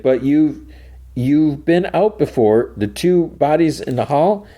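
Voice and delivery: high, halting appeal; imitated urgent reasoning; pleading. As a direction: press the point through a closed door. Pleading through the vault door.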